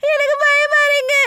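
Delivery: fake scared crying. Suspect keeps up fake tears with the DCP, put-on fear. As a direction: draw the words out like a frightened sob. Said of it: "முதல்ல அழுகிறத நிப்பாட்டு".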